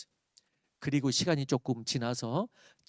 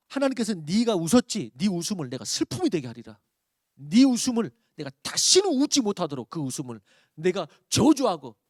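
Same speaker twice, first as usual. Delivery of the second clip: louder, higher stern rebuke; imagined divine curse, raised and stern; angry God's curse; 3 semitones higher, 6 dB louder than usual. Pretend. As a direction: thunder it like a wrathful God. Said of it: "이렇게 말하지 않고".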